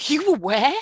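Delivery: a cop who can't believe what he's hearing; incredulous cop. Retold or imitated. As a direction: spell out each question slowly in shock. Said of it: "He goes".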